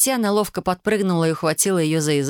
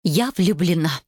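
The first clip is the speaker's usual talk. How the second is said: grand, dramatic love confession; theatrical proclamation; slower than usual. A narrator's reading. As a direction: declare it as if on stage. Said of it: "театрально провозгласила".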